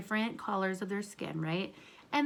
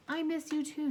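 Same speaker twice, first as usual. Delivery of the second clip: Night's reply; 6 semitones higher than usual. Acted. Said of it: "said Night".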